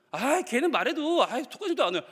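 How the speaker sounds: mock whiny brush-off, starting high; dismissive child. Child asked about confiding in the sibling, dismissive. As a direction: drag it out like a fed-up kid. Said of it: "너 동생한테 네가 억울한 거 얘기해봤어?".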